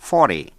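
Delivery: forty stressed on "for", short ending; pronunciation demo. Shown as a demonstration. Teacher modelling numbers for learners, careful pronunciation. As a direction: model forty with a light last syllable. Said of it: "Xin nghe cách phát âm".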